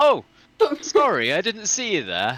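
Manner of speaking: full put-on English accent, high and swooping. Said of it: "I don't know why I said it like that".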